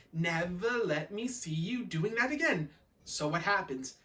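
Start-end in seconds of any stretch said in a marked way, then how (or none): 0.1-2.7 measured sing-song mock telling-off; two children chanting the maid's catchphrase; mimicked scolding. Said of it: "and we're both saying".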